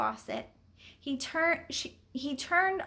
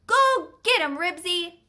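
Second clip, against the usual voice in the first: high, loud cheer; yell; 5 semitones higher, 7 dB louder than usual. A narrator's reading. Boy cheers his dog on, yelling. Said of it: "he would have yelled".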